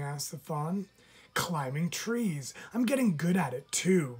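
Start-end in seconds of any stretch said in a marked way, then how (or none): 1.3-4.2 a boastful little raccoon, rising louder and quicker; bragging. Acted. Little raccoon brags to the fawn about climbing, boastful. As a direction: show off, brag about it. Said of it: "bragged the little raccoon".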